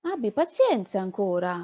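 slow, drawn-out calming voice; slow and gentle, settling him down; Signora Guerra soothing. Acted. Guerra soothes shouting boy. (la signora calma il ragazzo, lentamente)

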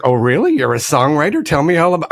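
imagined impressed fan. Retold or imitated. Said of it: "make her ask questions like".

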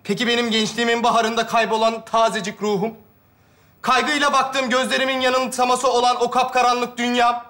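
melodramatic poetic recitation; carried-away lament. Acted. Friend getting carried away before his mates, melodramatic lament. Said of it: "Kendimi kaptırıyorum oğlum".

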